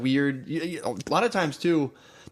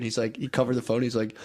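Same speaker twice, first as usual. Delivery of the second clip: ordinary talk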